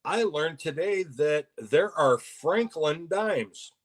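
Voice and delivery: slow, drawn-out sarcasm; sarcastic. Real, not acted. Telling co-host about the odd dimes at the shop, sarcastic. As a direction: make a sarcastic announcement, taking your time. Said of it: "I'm being sarcastic when I say this".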